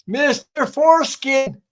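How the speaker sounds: high, loud, drawn-out shout imitating a receptionist; yelled name call. Young lady calling the next applicant in a waiting room, yelled. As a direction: call the name out slowly across the room, mimicking her. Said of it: "This young lady comes out and yells".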